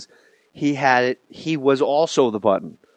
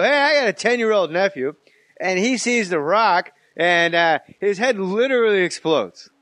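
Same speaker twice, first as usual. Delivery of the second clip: higher, eager dumb-guy voice; mock clueless bro; 5 semitones higher than usual. Mocking a guy who says literally, eager and high. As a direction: play the guy misusing literally. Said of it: "You go".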